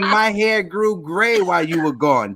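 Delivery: loud, very high burst; excited exclamation. Real, not acted. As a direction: read the joke with a big laugh. Reading viewer's joke loudly.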